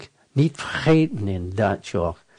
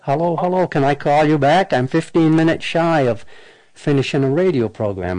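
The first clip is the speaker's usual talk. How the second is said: dodging a caller; 5 semitones higher than usual. Real, not acted. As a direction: talk up to be heard on the line. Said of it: "Watch how I handle this".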